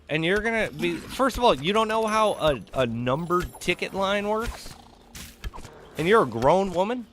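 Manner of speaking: worked-up incredulous rant; exasperated rant. Real, not acted. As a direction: vent at her stupidity. Ranting at the customer.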